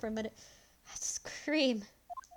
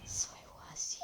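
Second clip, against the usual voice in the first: breathy whisper; chilling realization; 12 dB quieter than usual. Acted. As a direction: hiss it under your breath.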